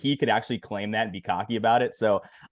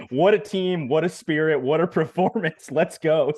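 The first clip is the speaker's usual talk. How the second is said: upbeat mock hype; 5 semitones higher than usual. Quoting Mourinho caption.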